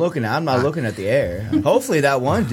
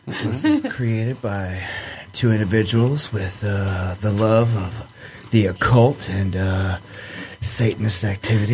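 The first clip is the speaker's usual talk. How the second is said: sexy voice; 3 semitones lower than usual. Acted. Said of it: "He's making love in my ears right now".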